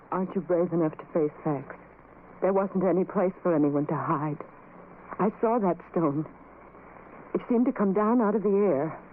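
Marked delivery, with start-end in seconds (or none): none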